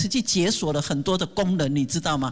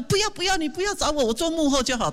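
high, fussy refusal; timid volunteer turning down the job, high and pleading; mock refusal; 7 semitones higher than usual. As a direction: squeak out a shy no. Volunteer refusing leadership role.

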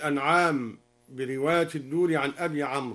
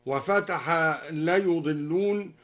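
usual speaking voice

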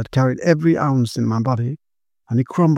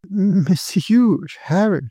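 cried; 5 semitones higher, much slower than usual. Acted. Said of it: "she cried".

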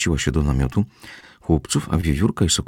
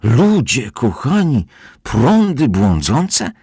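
loud, high, drawn-out dismay; horrified; 8 semitones higher, 6 dB louder, much slower than usual. A narrator's reading. Housekeeper hears of stray currents, horrified. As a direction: wail each word slowly in alarm. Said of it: "przeraziła się gospodyni".

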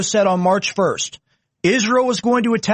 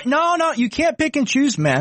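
insistent, higher-pitched protest; raised-voice objection; 7 semitones higher than usual. Real, not acted. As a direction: cut in and object forcefully. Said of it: "Stop yelling at me".

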